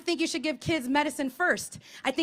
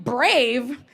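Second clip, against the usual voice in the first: mock menace; 4 dB louder, slower than usual. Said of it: "I'm like".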